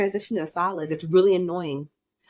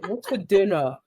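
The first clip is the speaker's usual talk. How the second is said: put-on chain-smoker kid. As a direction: imitate a kid who sounds like an old smoker. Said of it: "You sound like a seventy-year-old chain smoker".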